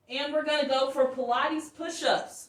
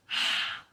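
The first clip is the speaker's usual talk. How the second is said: breath of fire. Shown as a demonstration. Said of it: "Like that".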